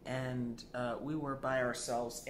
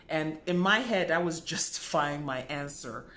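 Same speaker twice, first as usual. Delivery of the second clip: laughing admission; 7 dB louder than usual. Real, not acted. Admits his dodge.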